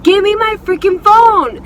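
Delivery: high-pitched mock yell; retold angry demand. Teller fighting for her phone, acted angry yell. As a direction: demand it back, voice pushed high in outrage.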